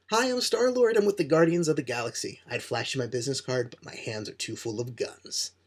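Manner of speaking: a hammed-up Star-Lord bursting in with guns; cocky Star-Lord intro. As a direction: show off like a swaggering space rogue. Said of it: "he says it that way because it's funny".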